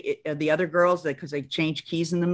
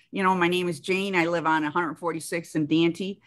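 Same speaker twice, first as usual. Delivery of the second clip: flat Chicago vowels; Chicago accent. Shown as a demonstration. Actress from Chicago showing where her speech comes from, Chicago accent. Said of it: "kinda come from here".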